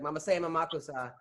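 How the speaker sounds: put-on flat-out white take on a chant, New York Jewish accent; light New York Jewish accent on borrowed words. Man retelling his attempt to fit in, light New York Jewish accent. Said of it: "in a New York Jewish accent".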